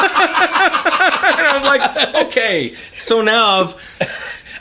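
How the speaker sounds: high, stretched words through laughter; laughing while talking. Real, not acted. Father retelling his son's swearing, laughing through it. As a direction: talk through the giggles.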